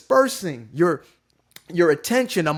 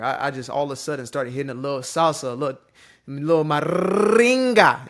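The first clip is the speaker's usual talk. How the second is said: salsa groove. Pretend. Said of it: "You see how I'm hitting this little smooth little groove".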